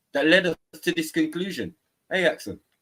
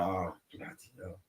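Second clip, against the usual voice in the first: exasperated; 8 semitones lower, 14 dB quieter than usual. Retold or imitated. Exasperated response retold.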